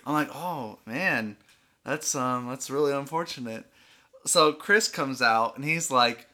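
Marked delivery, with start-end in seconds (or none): 0.3-3.7 subdued fake sympathy, hiding the laughter; understated poker-faced reply; deadpan. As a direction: play it straight, softly and evenly. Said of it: "I'm dead facing this whole time".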